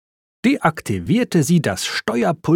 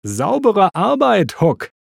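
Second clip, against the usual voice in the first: calling out praise; 7 semitones higher than usual. A narrator's reading. Holly to her friend who found the clue, calling out praise. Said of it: "rief Holly".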